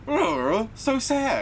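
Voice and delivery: high mock guttural growl, laughing; mock demonic guttural "so sad". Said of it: "a guttural".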